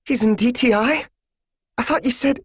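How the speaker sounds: very high, rushed disbelief; shocked disbelief. Acted. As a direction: cut off in alarm. Daughter shocked.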